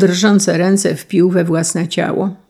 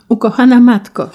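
louder, higher heartfelt call; crying out; 5 semitones higher, 5 dB louder than usual. A narrator's reading. Son calls to his weeping mother, crying out. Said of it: "zawołał".

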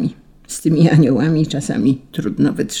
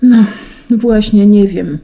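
higher, louder hesitant start; mumbled admission; 5 semitones higher, 6 dB louder than usual. A narrator's reading. An angel admitting he lost the star, awkward hesitation. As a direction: blurt it out awkwardly after stalling. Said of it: "bąknął anioł".

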